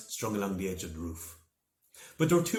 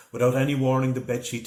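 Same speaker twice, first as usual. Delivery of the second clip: louder, punchy build-up; dramatic narration; 4 semitones higher, 8 dB louder than usual. A narrator's reading. Narrator at the sudden twist, dramatic and louder. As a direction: hit it as the twist lands.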